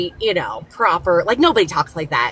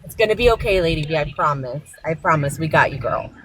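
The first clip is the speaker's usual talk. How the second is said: reassuring. Real, not acted. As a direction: comfort her gently, promise it'll be okay. Reassuring upset Lady V.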